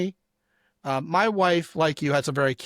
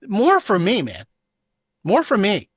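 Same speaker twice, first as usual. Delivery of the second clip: loud, gleeful mock gloat; loud mock gloating from a bitter guy; 4 semitones higher, 5 dB louder than usual. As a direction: crow it like a rival who just won.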